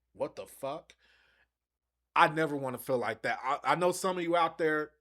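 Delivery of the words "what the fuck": a mock-confused friend, softer and distant; baffled casual fan. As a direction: play the lost newcomer reacting, hushed. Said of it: "they're looking like this".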